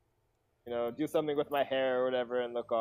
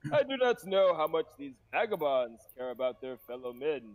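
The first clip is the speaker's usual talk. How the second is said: put-on feisty old adventurer; 2 semitones higher than usual. Plays Leroy.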